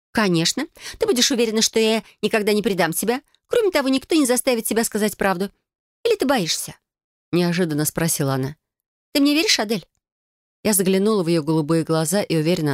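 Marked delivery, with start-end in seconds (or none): 0.1-6.7 put-on bright, higher girlish cousin voice, eager; Felicia's voice. Cousin proposing a blood oath to Adel, eager and higher. 9.1-9.9 put-on bright, higher girlish cousin voice, eager; Felicia's voice. Cousin proposing a blood oath to Adel, eager and higher.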